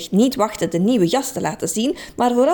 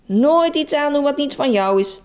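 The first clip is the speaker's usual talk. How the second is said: stern; 5 semitones higher than usual. Acted. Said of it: "zei Frits streng".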